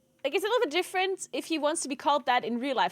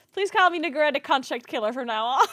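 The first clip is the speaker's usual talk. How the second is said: laughing request; 4 dB louder than usual. Pretend. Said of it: "imagine I tell my mom".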